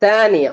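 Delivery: தானியா opening with a plain T; Egyptian T. Shown as a demonstration. Teacher showing Egyptian second, தானியா starting on T. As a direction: say தானியா with T replacing th. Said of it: "எப்படி சொல்லுவாங்க".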